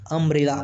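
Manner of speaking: correcting to "um-brella" for अम्ब्रेला; अम्ब्रेला opening on अ, not उ. Shown as a demonstration. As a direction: say अम्ब्रेला with a short uh first. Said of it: "यू का उच्चारण अ हो रहा है".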